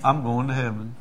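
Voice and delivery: soft repeat of the assurance; tender, quiet retold voice; tearful smile. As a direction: say it gently, imitating the convert. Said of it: "smiled at me with a tear".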